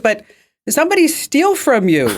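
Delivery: high Vietnamese accent imitation. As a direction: explain it away in her Vietnamese accent. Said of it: "she's from Vietnam".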